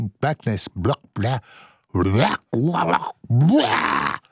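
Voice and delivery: blah-blah gibberish building to a squawk; flubbed-line gibberish. Real, not acted. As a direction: let the fluffed line collapse into babbled noises. Flubs script into gibberish.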